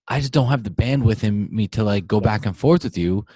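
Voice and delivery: exasperated outburst. Retold or imitated. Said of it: "it's like".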